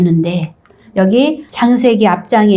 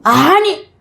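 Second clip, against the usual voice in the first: mock angry no; 6 semitones higher, much slower than usual. Jacob angry outburst.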